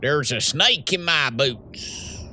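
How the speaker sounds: slow drawling cowboy line; a hint of Woody the cowboy; cowboy impression. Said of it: "I can do shotgun farmers".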